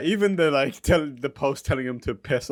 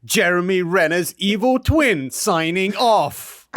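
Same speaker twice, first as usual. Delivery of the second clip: high, loud villain growl; Liquid Snake voice; 7 semitones higher, 5 dB louder, slower than usual. Acted. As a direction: sneer it like a gloating evil twin. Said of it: "I'll do this in Liquid Snake's voice".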